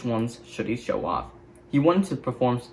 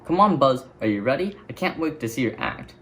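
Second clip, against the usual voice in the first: calling out. Acted. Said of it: "Jessie called".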